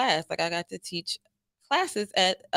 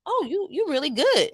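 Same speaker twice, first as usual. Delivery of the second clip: higher-pitched, lightly voiced studio owner's compliment; imitated studio owner; 7 semitones higher than usual. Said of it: "the owner was like".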